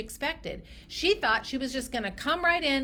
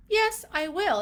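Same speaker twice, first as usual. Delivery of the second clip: agreeing patient; 7 semitones higher, 4 dB louder than usual. Acted. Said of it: "They're the ones that say".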